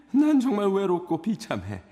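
high, loud begging voice; desperate pleading cry. Acted. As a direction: cry out, don't let her leave. Ghost begs Virginia to stay.

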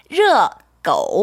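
르고 stretched very slowly for the learner; slow Chinese pronunciation. Shown as a demonstration. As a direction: model 르고 slowly, one syllable at a time. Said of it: "한 번 더 해볼까요". (르고를 천천히 시범으로)

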